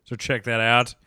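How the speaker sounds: low, grudging plug for someone else; resentful. Real, not acted. Host plugging guest's YouTube channel, resentful. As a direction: begrudge them the compliment, dragging it out at the end. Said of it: "I say that with resentment".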